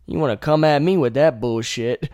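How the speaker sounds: high, loud telling-off that cools down; loud high rant fading back to normal; mock angry comeback. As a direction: chew him out, then settle. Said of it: "You're like".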